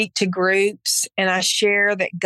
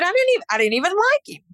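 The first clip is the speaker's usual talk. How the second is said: defensive outburst; 10 semitones higher, faster than usual. Retold or imitated. Defending herself to God.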